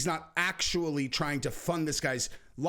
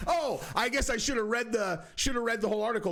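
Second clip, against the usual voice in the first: amused; 6 semitones higher than usual. Real, not acted. Amused after laughing.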